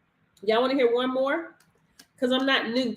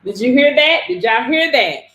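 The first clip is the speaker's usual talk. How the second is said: loud, hyped question to the viewers; rally the live chat, loud; excited loud call-out; 8 dB louder than usual. Real, not acted. Coach hyping her live audience, loud and excited.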